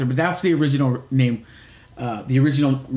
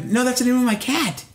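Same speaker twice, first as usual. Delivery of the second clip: matter-of-fact reply; 9 semitones higher than usual. Retold or imitated. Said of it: "I go".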